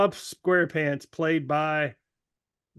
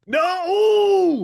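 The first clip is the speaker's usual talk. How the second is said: protesting shout; 12 semitones higher, 5 dB louder than usual. Real, not acted. Protesting the casting.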